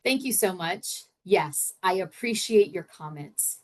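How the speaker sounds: bright overly gracious thank-you, then brisk; sweetly polite brush-off. Retold or imitated. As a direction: politely shut down a sarcastic colleague. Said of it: "this is what I would typically say".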